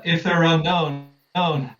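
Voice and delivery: mild yell. Acted. Player's character questions the knight about enemies, mild yell. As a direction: call out a challenge without going full volume. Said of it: "But I yell".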